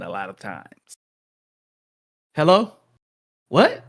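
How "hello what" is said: higher, louder, mock-baffled; high mock confusion. Friend answering a call he didn't expect, high and confused. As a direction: play the clueless friend.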